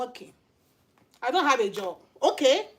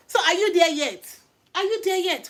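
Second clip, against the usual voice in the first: teasing challenge; 5 semitones higher, 5 dB louder than usual. Real, not acted. Challenging the couple, laughing.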